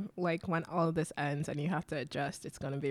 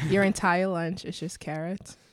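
laughing; 3 dB louder than usual. Real, not acted.

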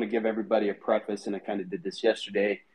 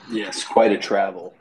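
dramatic; 6 dB louder, slower than usual. Pretend. Joke about elevator to Batcave.

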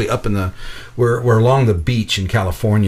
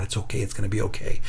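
reassuring; 3 semitones lower, 8 dB quieter, faster than usual. Retold or imitated. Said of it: "the nurse telling my mother".

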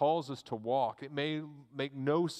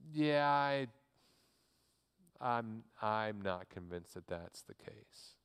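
hesitant doubt; 3 semitones lower, slower than usual. Acted. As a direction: voice an unconvinced listener backing off. Doubters balk at the path.

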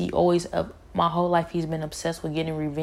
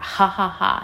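mock devil laugh; 3 semitones higher, 5 dB louder than usual. Imitating Satan laughing proudly in her face, mock gloating laugh. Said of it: "He just laughed, like".

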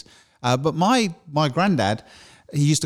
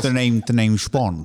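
James Bond voice; slower than usual. Retold or imitated. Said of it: "James Bond voice".

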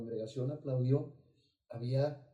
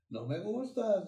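demon voice; 8 semitones higher, slower than usual. Retold or imitated. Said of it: "decía".

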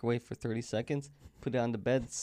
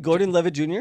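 mocking Jen; 5 semitones higher, 8 dB louder than usual. Mocking Jen's mistake.

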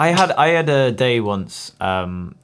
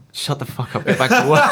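mock blunt retort; 4 semitones higher than usual. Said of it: "And she was like".

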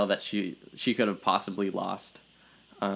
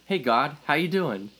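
dumb guy prayer; 6 semitones higher than usual. Retold or imitated. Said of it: "dumb guy prayer".

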